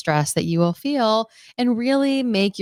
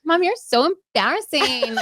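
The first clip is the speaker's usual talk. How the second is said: put-on whiny teen; 6 semitones higher than usual. Mimicking embarrassed teen kids.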